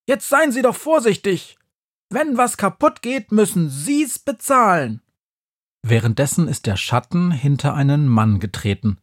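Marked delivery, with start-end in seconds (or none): 0.1-5.0 much higher, shrill telling-off; scolding saleswoman. A narrator's reading. Saleswoman scolds a woman who dropped a toy box, sharply. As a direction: scold the careless customer like a shop assistant. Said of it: "Sie schimpft".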